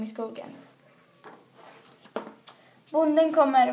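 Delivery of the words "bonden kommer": louder, higher warning cry; alarmed shout. A narrator's reading. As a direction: shout a warning that the farmer is coming. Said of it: "ropade kråkan".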